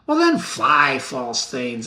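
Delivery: scornful outburst. Acted. Macbeth dismisses deserting thanes.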